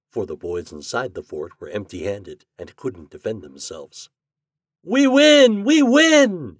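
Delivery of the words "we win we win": high, loud victory shout; exultant exclamation. A narrator's reading. Toad celebrating the captured fort, exclaiming high and loud. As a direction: cry out in triumph. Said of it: "exclaimed Toad".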